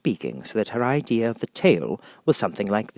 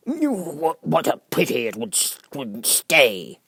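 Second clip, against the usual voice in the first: sighed; 7 semitones higher, 4 dB louder, much slower than usual. Acted.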